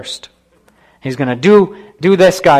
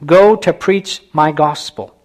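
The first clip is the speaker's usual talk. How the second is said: slow, deliberate summons; measured, lightly voiced divine message; voice in the night; slower than usual. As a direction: draw it out like a call to a sleeper. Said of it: "this voice wakes him up".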